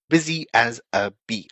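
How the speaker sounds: "busy as a bee" said as one connected phrase; words kept together. Shown as a demonstration. Teacher modelling an idiom, "busy as a bee" kept together. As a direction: run "busy as a bee" together without a break. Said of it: "hear those four words together".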